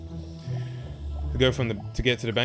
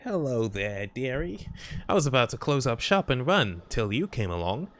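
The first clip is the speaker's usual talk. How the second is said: lightly voiced sweet old lady; a hint of a kindly granny banker. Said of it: "How's my old lady voice?".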